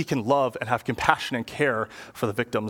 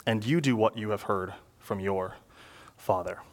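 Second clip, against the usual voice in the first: scripture reading; 3 semitones lower than usual. Acted. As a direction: read the passage with weight. Pastor reads scripture passage aloud.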